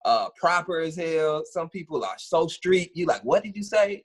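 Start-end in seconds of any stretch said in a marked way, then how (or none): 3.2-4.0 puzzled. Retold or imitated. Quotes listener baffled by street talk.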